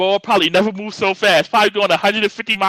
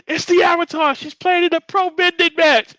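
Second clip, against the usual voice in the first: mock radio announcer; 11 semitones higher than usual. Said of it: "the radio's like".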